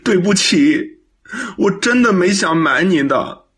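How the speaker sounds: kneeling son apologizes to his mother through tears; tearful apology. Acted. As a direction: sob out the apology on your knees. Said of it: "跪到地上哭了起来".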